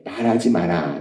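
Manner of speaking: low, soft command; hushed, deep divine reply; God's inner voice. Retold or imitated. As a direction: answer quietly as God within. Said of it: "거의 아홉 번은 하나님이".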